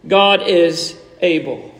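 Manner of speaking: low, slow, firm declaration; solemn refrain. Real, not acted. Preacher assures congregation facing trials, low and slowly emphatic. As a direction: set each word down slowly and firmly.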